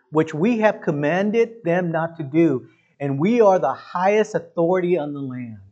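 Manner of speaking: pompous anger, leaning on each word; acted indignation. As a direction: pull rank like an affronted high authority. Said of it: "They were angry".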